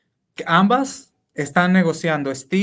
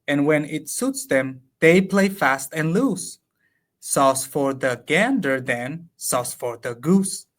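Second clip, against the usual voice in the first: slow, measured recital of the English lines; slow verse reading; much slower than usual. Acted. To a colleague, reciting translated Lope verse slowly. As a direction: savour each line of the sonnet, slowly. Reads closing couplet aloud.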